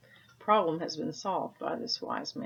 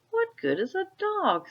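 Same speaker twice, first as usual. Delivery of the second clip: skeptical Peter; 14 semitones higher, 5 dB louder than usual. Acted. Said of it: "said Peter".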